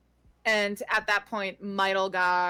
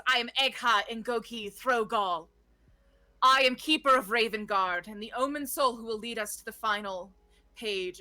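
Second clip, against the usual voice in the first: proud introduction. Acted. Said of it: "she sort of puffs up her chest and she says".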